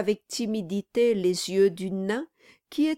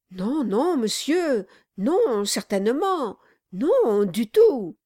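flustered denial; 4 semitones higher, 5 dB louder than usual. Acted. Brass backpedals.

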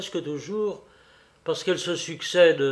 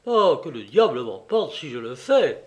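s'écrier; 3 dB louder than usual. Acted. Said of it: "s'écria Henri".

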